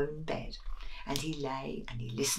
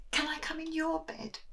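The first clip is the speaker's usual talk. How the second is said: small high mouse voice; pleading little mouse, pitched up; high squeaky little mouse asking; 12 semitones higher, 4 dB quieter than usual. Acted.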